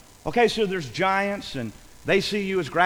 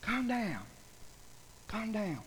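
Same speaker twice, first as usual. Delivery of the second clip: very soft, settling voice; soft hushing; 14 dB quieter than usual. Acted. Caleb stilling the grumbling people, softly hushing. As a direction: bring the crowd right down.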